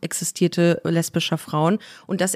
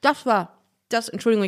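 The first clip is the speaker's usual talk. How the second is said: chewing while talking. Real, not acted. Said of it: "ich esse gerade einen Haribo".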